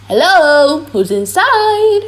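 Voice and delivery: calling up to the house, loud and high. Acted. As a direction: call up to the window.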